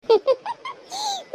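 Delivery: high-pitched staccato giggle; mischievous giggle. Acted. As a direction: giggle high at getting them caught. Mischief after the fake crying. (குறும்பான கீச்சுச் சிரிப்பு)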